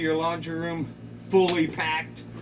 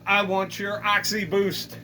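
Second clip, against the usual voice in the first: defiant neighbor; 3 semitones higher than usual. Acted. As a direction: bark it back, stubborn. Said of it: "She says".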